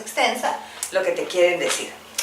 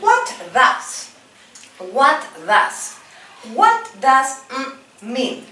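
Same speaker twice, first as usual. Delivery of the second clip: teacher drill; 4 semitones higher, much slower than usual. Shown as a demonstration. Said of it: "let's repeat".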